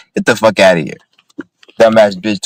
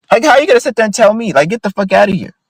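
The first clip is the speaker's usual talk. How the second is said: indignant; 10 semitones higher than usual. Real, not acted. Indignant rant after retort.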